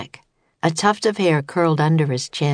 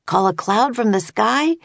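shout; 5 semitones higher than usual. A narrator's reading. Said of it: "he shouted to Annie".

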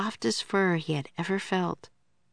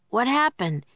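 higher, slightly raised call; understated storybook shout; mild shout; 7 semitones higher than usual. A narrator's reading. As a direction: call out the question in a lightly acted shout. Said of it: "he shouted".

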